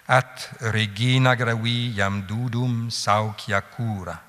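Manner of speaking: scansion lente et mesurée, longues tenues; vers latin scandé. Shown as a demonstration. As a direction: faire entendre le rythme de l'hexamètre. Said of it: "je recommence pour vous faire sentir le rythme". (latin psalmodié lentement, en mesure)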